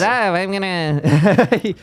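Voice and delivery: slow drawn-out alien voice. Retold or imitated. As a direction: stretch it out slowly like an alien. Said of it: "It's alien voice".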